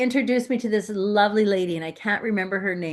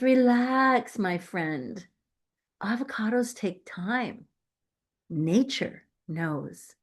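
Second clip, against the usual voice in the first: calm wise farmer; 3 dB quieter, slower than usual. Retold or imitated. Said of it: "experienced farmer, who is calm, patient, wise".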